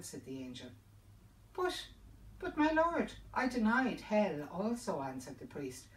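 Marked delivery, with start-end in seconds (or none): 1.5-5.0 much higher and louder, stammering in fright; panicked plea. Acted. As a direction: beg in sudden terror, tripping over words. Terrified priest pleads with angel.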